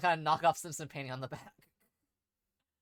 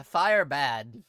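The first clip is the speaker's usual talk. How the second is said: dim giant cyclops; 3 semitones lower, 7 dB louder than usual. Acted. Dim creature speaks.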